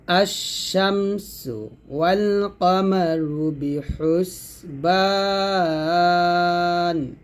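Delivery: slow, sustained chant with long held vowels; measured tajweed chanting; Quran recitation. Shown as a demonstration. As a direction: recite it slowly, drawing out each long vowel. Recites the verse for learners.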